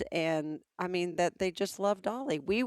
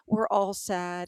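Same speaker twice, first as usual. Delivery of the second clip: waiter's sad reply; much slower than usual. Retold or imitated. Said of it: "He goes".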